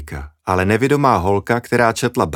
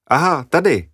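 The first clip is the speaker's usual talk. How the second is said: laughing; 7 semitones higher than usual. Acted. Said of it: "zasmála se dívka".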